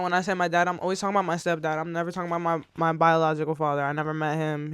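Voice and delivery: usual speaking voice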